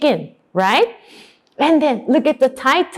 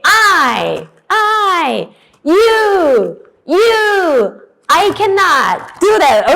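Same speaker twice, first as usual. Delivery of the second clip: raised, emphatic word drill; loud drilling; 6 semitones higher, 3 dB louder, much slower than usual. Shown as a demonstration. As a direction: call each word out for the class to beat. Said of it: "you should say louder than me".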